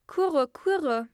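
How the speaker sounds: high, loud bird call with falling swoops; storybook dove calling out; cooing wood pigeons. A narrator's reading. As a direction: coo it out like a pigeon. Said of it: "Da sagten die Waldtauben".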